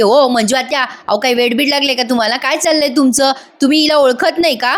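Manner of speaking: a touch of annoyed scolding, pitch rising; mock-cross, quick and pointed; irritated scolding. Kavya snapping at her aunt, mildly irritated. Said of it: "Kavya चिडते आणि म्हणते".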